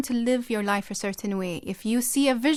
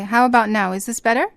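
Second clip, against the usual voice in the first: speaking louder into the mic; 7 dB louder than usual. Real, not acted. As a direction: push the voice, louder than before. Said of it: "Yeah, that is better".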